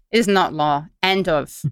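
slipping put-on Irish accent; mock Irish, firmly final. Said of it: "doing this in an Irish accent".

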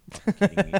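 high, loud fed-up outburst; mock exasperated yell. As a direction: blow up in disbelief. Nick reacting to coworker drama.

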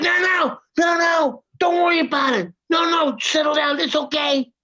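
high-pitched mock soothing, quick repeated reassurances; placating. Woman settles the upset actor, mimicked in a high placating voice.

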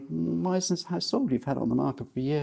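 pointed presenter. Retold or imitated. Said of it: "he would say".

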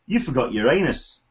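put-on a weak stab at a Liverpool accent on "You forgot your anus"; barely-there Scouse, mostly own voice; half-hearted Liverpool impression. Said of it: "as good as my Liverpool accent gets".

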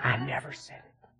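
whispered to himself, almost no voice; private whisper. Retold or imitated. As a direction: breathe it out alone in the car. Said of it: "I'll go to the car and say".

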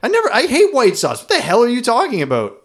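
high laughing denial, a bit fast; laughing protest. Real, not acted. Cohost laughing off the claim he likes white sauce. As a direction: squeal it out through a laugh.

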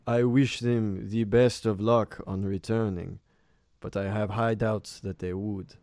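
deliberate, doubtful village elder, lightly played. Elder doubts the crew will return from the cave, lightly voiced elder. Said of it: "the elder kind of squints".

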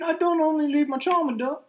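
high mock Australian voice; bad Australian accent. Co-host mimicking Charmander's trainer, bad Australian accent. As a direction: imitate the trainer in fake Australian. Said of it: "some shitty Australian accent".

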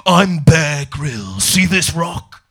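slow, deliberate macho presenter; Bear Grylls impression. Comedian mocks Bear Grylls with a slow macho intro. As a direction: introduce yourself like a TV survivalist, lightly. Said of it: "he's like".

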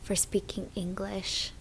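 soft unvoiced whisper. Real, not acted. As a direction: drop to a whisper. Quiet aside about trip.

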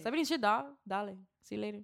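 lightly put-on Miami accent; breezy Miami-accented goodbye. Shown as a demonstration. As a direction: sign off like a Miami local. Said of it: "You have to say it in this accent".

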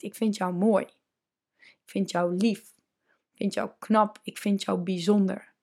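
soft, gentle reassurance; quiet, tender words of praise; tender compliment. Retold or imitated. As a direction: say it softly like a loving partner. Kind voice compliments the listener.

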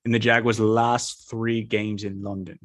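put-on a light, half-hearted British accent. Podcaster making his London game pick, in a light British accent. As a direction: play the bloke from London, lightly. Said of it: "in kind of a British, British accent here".

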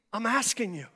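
a quiet pastor's appeal; soft plea. Acted. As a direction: pull it back to a hush. Drops to soft after shout.

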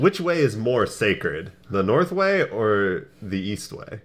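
measured, slow, grave adventurer; slow solemn hero. Acted. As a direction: ask it slowly, like a knight. Asking the kobold solemnly.

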